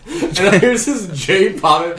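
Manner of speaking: slow, words laughed out; chuckling through the line; laughing. Real, not acted. Laughs telling the story.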